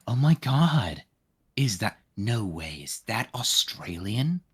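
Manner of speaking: slow, breathy mock-amazed gasp; imitating a friend's over-the-top surprise; mocking imitation. Friend mocking another friend's amazement in a slow impressed voice. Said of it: "and went".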